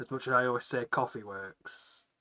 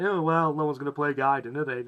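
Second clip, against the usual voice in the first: mocking voice; 3 semitones higher, 13 dB louder than usual. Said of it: "the other one's just like".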